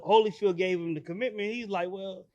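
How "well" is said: high-pitched mock indignation; imitated objection. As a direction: object like the disappointed son, pitch up. Voices disappointed son objecting.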